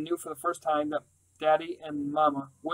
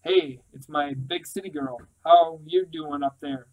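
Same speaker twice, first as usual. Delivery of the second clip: slow, easy greeting from a big father; deep fatherly voice; slower than usual. Acted. Father greeting his daughter on the phone, slow and easy. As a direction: drawl it out like a big gentle dad. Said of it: "his deep voice".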